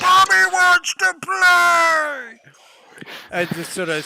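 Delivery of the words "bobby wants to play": huge, high, drawn-out holler; Dante's booming voice. Acted. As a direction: boom it out over the crowd, stretched long. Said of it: "the booming voice of Dante going".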